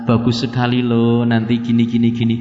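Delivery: low, even, courteous sales pitch; mild smooth-talking tempter; sweet-faced tempter. Acted. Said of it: "datang dengan wajah yang manis".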